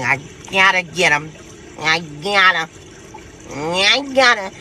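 mock straining voice, last one drawn out; desperate-to-win mimicry. Reader voices a rival who must win, mock straining. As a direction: act out someone itching to get them. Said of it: "Kind of energy".

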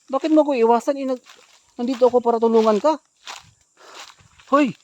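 high, loud pleading shout; calling out. Acted. Man shouts after the woman that he wants to help, loud and high. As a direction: shout that you only want to help.

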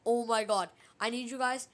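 loud startled shout; yelling in sudden fright; excited shouting. Real, not acted. Spooked by Herobrine message.

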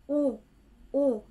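u with pursed lips. Shown as a demonstration. Teacher shows u: lips pursed forward. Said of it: "Pinupurse ko yung lips ko".

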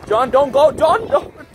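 high pleading call to the bird. Real, not acted. Calling to bird leaving.

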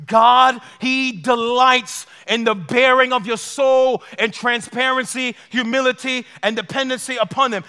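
slow, weighty declaration; preacher slowing to drive it home; slow emphatic restatement. Shown as a demonstration. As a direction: lean on each word slowly. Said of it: "this revelation transformed my life".

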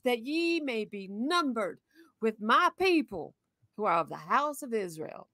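lightly voiced old grandma, slow. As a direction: read it slowly, a hint of grandma. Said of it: "I haven't read grandma voice in a while".

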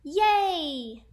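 big, high, drawn-out cheer; excited cry. A narrator's reading. Whole class reacting to the trip, excited cry. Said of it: "the class cried".

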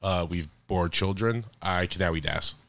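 imitating Russell Wilson. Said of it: "He's like".

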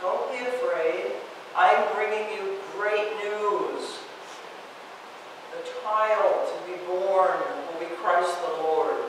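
soft, gentle angel's hush; gentle whisper. Acted. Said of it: "the angels whispered gently".

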